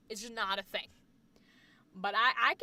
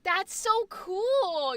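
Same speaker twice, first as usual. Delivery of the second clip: delighted; 5 semitones higher, much slower than usual. Real, not acted. Delighted by friend's two mom modes.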